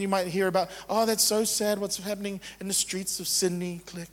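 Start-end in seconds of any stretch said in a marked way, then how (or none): 0.9-3.8 mock pity. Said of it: "That's pity".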